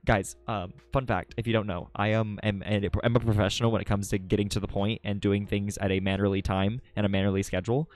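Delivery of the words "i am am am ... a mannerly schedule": understated fake professional seriousness; mock-serious deadpan. Streamer jokingly bragging to chat, mock-serious deadpan. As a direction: keep a straight face, evenly. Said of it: "I can't even keep a straight face and fully say that".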